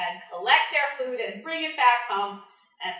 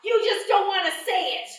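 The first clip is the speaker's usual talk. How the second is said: singsong, louder spider teasing; 8 semitones higher, 7 dB louder than usual. Acted. Anansi coaxing bush deer in a singsong tease. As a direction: tease the deer in a sung lilt.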